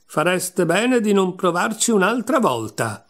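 high-pitched, restrained cry; mild storybook shout; narrated shout. A narrator's reading. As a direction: call out a warning with the pitch lifted. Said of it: "e gridò".

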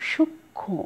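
সূক্ষ্ম as shuk-khõ, final vowel nasal; nasalised, silent m. Shown as a demonstration. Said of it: "ময়ের উচ্চারণ নেই কিন্তু নাসিক্য হয়েছে".

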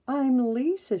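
a hint of an eager little girl. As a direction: Lisa introduces herself to the bear, lightly childlike.

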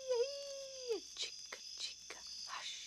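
whistle then whispered fading sounds. A narrator's reading. Narrator whispering the last noises as the man sleeps. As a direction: fade it down to sleep.

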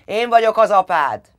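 high, loud roar; father roaring at his daughter. A narrator's reading. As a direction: bellow his authority.

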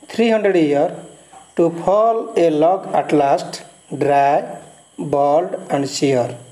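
measured, rhythmic poem reading; poem recitation. Acted. Teacher reciting the poem to students, measured reading.

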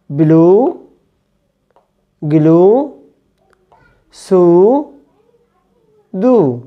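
بلو said with a long rounded "oo"; long English oo. Shown as a demonstration. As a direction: stretch the "oo" in بلو، جلو، سو، دو. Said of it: "هنطقها أو". (نطق أو طويلة مدورة)

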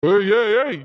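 loud, cutting-in "hey"; sharp warning shout; angry warning. Acted. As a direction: shut down her protest. Sound விட்டு பேசாத.

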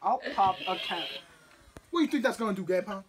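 high, laughing tough-guy threats; gangster voice. Acted. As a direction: play a mock street thug. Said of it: "still talking in that gangster voice".

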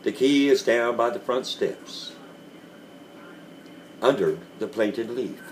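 lightly gentle, patient instruction; understated tender telling. A narrator's reading. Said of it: "said I in the gentlest of voice".

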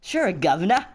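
mock-British "guv'nor" with a sore throat; cheerful put-on British reply, rising at the end; British accent. Twilight answers Fluttershy, British accent with sore throat. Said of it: "British accent with a sore throat".

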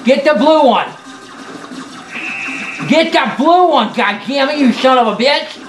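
barking orders mid-game; shouting orders over battle. Acted. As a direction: yell commands at teammates. Yelling orders in online game.

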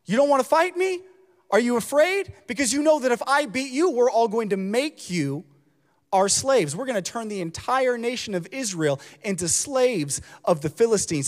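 a giant jeering across the valley; taunting giant Goliath. Retold or imitated. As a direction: sneer it out like a bragging champion. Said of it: "He's saying".

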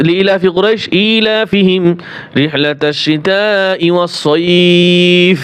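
slow, chanted tajweed recitation; Quran recitation. Acted. Teacher reciting Surah Quraish as an example. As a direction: recite it slowly with a long stretch.

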